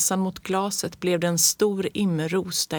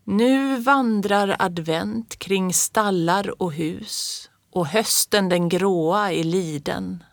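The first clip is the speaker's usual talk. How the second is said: slow, solemn recital of a poem; grandmother's hushed solemn advent verse; solemn verse reading; slower than usual. A narrator's reading. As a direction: read it like a sacred old verse. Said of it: "Precis som farmors röst när hon började läsa, så högtidlig var hon".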